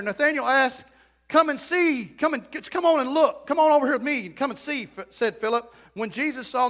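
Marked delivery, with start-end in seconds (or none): 1.3-4.8 eager invitation. Retold or imitated. Philip urging Nathanael.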